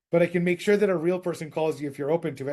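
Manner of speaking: quick, lightly voiced robot caller. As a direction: rattle it off like a bot. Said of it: "That's what the robot said".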